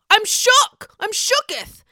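high, loud mock Stassi exclamation; imitating Stassi. Quoting Stassi from past seasons, high mock squeal. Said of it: "as Stassi would say".

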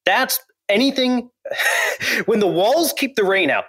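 high, amused laugh through words. Real, not acted. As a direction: chuckle while saying it. Laughing about leaky log cabin.

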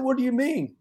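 high-pitched question through real laughter; can't keep a straight face; laughing. Real, not acted. Coach telling the Jerry story, laughing as he asks. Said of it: "I started laughing like I am now".

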